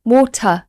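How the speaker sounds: WATER stopping at the T, no R; British pronunciation. Shown as a demonstration. Teacher repeating British WATER, stopping at the T. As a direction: say water with a silent final R. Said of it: "It kind of stops at the T".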